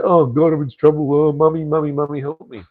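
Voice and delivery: high, whiny plea for mummy, hammed up; mock whiny tourist. Mocking tourists who get in trouble, whiny plea. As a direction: mimic a panicked tourist crying for his mum. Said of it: "and then you go".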